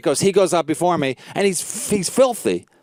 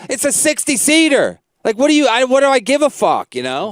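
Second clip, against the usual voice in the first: higher, indignant dismissal; retold scornful retort; 6 semitones higher than usual. Comic banned from a sixty seater, indignantly dismissive. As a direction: scoff at the ban, worked up.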